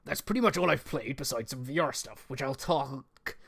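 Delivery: put-on West Country reading voice; American attempt gone West Country; West Country accent. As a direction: read the script in amateur West Country. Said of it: "I'm doing it West Country".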